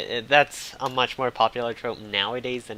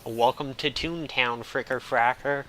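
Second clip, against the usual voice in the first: mock menacing greeting; 2 semitones higher, 4 dB louder than usual. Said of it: "it's all like".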